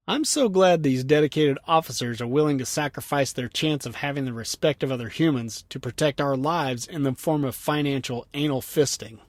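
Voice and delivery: read-aloud rant with mock gratitude; sarcastic rant. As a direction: lay on the fake gladness, lightly. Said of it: "He rants".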